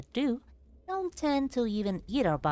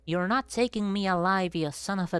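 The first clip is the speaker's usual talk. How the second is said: defiant yell; 3 dB louder than usual. Retold or imitated. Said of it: "sort of mentality".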